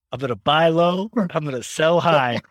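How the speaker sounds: emphatic boast, acted for laughs; kid's proud declaration. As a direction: announce it like a confident little kid. Kid proudly repeats dad's advice.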